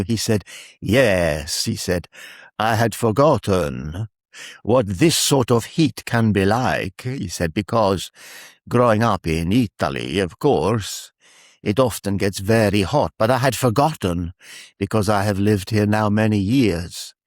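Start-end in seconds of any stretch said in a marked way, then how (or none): 0.8-1.6 imitated Italian accent. Tree man agreeing about the hot day, Italian accent. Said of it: "In his Italian accent". 2.6-7.0 slow, measured imitated Italian accent. Italian workman chatting about the heat, Italian accent. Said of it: "In his Italian accent". 7.5-17.1 imitated Italian accent, carefully spoken. Italian workman explaining his years away, Italian accent. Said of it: "In his Italian accent".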